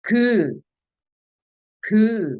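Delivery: normal talking voice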